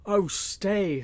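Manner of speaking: high, loud taunting call; mocking shout. A narrator's reading. Stuteley taunts the fleeing sheriff, loud mocking shout. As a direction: call after him with a taunt. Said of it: "shouted Will Stuteley after the sheriff".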